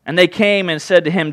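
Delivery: measured, unhurried reading of the gospel; scripture reading. Acted. Pastor reading the gospel to the church, steady and measured. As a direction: read the passage to the congregation with care.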